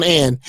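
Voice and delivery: "and" ending in a crisp T sound. Shown as a demonstration. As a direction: say "and" as "ant" with a hard T. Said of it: "they always put a T on".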